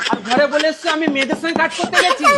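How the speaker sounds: mocking. Husband mocks and scolds wife.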